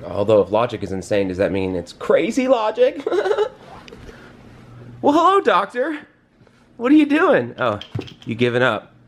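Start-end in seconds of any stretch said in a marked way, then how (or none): 1.9-3.1 laughing. Real, not acted. Laughing at own pun. 5.0-7.5 put-on high sing-song baby talk; talking to a toddler. Greeting toddler son.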